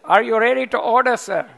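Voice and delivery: mock French waiter; French accent. Waiter asking a diner for the order, light French accent. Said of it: "that's my best French accent".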